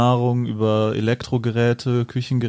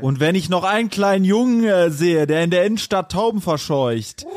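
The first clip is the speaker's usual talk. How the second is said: mock ranting; 5 semitones higher than usual. Poem ends in mock rage.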